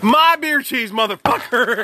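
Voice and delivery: excited outburst. Real, not acted. Claiming his snack.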